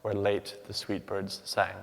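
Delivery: measured sonnet reading, very slow on bare ruined choirs; Shakespeare read with deliberate metrical weight; poetry recital. Shown as a demonstration. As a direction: read each line like a score for voice. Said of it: "The first quatrain reads".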